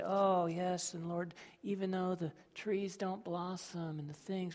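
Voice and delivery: softly, sweetly calm; mock-serene recitation; gently, as it's often quoted; calm and gentle. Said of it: "we say it so calmly and gently".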